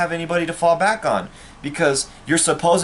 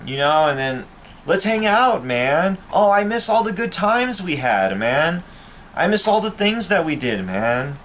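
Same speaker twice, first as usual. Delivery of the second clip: higher, lightly mocking fake-friendly voice; mocking fake buddy; 5 semitones higher than usual. Vlogger imitating former friends who want back in, mock-friendly voice. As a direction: imitate a phony old pal, sweet and hollow.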